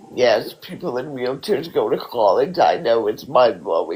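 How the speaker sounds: sarcastic. Real, not acted. Wheelchair user mocking assumptions about college, sarcastic. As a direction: say it as if it were shocking news, sarcastically. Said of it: "I was being sarcastic".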